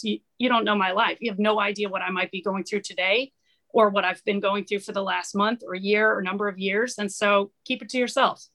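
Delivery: firm retort to people judging her; defiant retort. Retold or imitated. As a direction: push back at the judges. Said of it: "that's absolutely my response".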